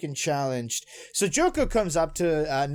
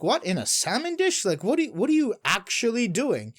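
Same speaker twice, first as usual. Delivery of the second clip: higher-pitched, disbelieving mock query; incredulous questioning; 4 semitones higher than usual. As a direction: imitate a baffled judge, pitched higher. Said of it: "the judge is questioning".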